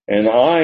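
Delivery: light stress on "I"; emphatic I. Shown as a demonstration. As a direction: lean a little on "I".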